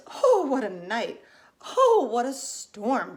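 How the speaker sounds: twittering wren. Acted. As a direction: drag out each oh like a fussy wren. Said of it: "twitters wren".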